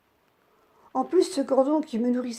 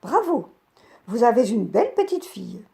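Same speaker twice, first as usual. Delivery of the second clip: proud; 5 dB louder than usual. Acted. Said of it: "La voix dit fièrement".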